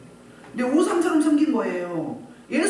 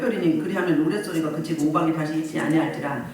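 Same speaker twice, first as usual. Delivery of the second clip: low, even read-aloud voice; measured Bible recitation, pitched low; scripture reading; 6 semitones lower than usual. Acted. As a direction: read the verse out in a lowered pitch.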